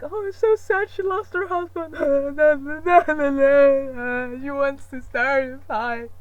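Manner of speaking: high, loud hammed-up crying with laughter; mock sobbing. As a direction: wail it like a blubbering fan. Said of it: "It was like".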